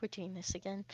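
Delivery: low, very soft resigned murmur; weary sigh. Acted. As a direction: say it under your breath, wearily. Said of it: "kinda sighs".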